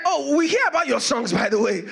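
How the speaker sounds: lightly voiced sneering taunt; a hint of jeering captors; mocking soldiers. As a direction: tease them with fake interest. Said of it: "they started mocking them".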